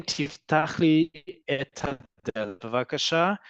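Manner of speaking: careful, drawn-out 'et hadelet bevakasha'; full unelided form. Shown as a demonstration. Hebrew teacher showing the unshortened sentence, slowly and carefully. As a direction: say each word separately and slowly, 'et hadelet' kept whole. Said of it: "Instead of saying".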